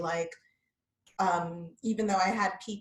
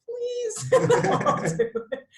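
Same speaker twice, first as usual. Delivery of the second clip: put-on Jewish accent; 6 dB louder, slower than usual. Same put-on voice, laughing.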